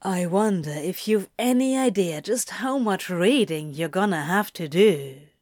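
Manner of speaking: musing demon. Acted. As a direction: muse it teasingly. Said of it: "Crowley mused".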